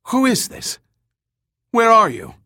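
high, loud radio shout. Acted. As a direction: yell it over the roar. Gant shouting over radio.

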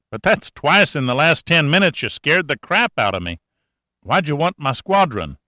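a hint of a wry country boy; country mechanic. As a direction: talk like a sly old country mechanic. Cashman voice held.

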